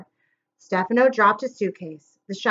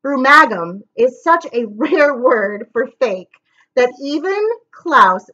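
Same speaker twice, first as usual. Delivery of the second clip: laughing aside; 4 dB louder than usual. Real, not acted.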